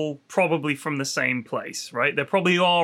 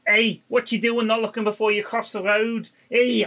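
put-on Liverpool accent, scolding and higher; Scouse accent; 5 semitones higher than usual. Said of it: "I can't do a Scouse accent".

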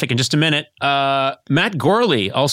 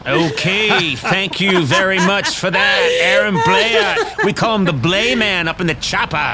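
mock anchor sign-off; 2 semitones higher than usual. Host thanking his chopper reporter, mock anchor. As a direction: wrap the pretend report like an anchor.

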